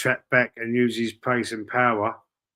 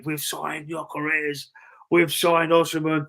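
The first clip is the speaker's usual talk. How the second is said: mock announcement; 3 semitones higher, slower than usual. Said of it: "People wanna hear me say".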